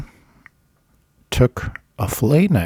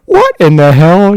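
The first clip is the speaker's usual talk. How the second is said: high, loud mock outrage; acted-out furious disbelief; pissed off; 9 semitones higher, 8 dB louder than usual. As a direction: imitate an angry, incredulous yell. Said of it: "was so pissed off".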